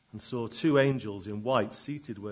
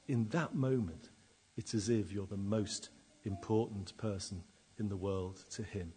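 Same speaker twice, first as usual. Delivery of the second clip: usual speaking voice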